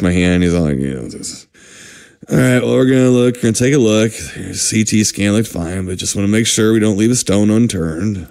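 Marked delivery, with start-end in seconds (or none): 2.3-8.3 lightly voiced doctor, lower and offhand; casual doctor. Doctor to patient before the procedure, lightly acted, casual. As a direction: run through it like a routine briefing.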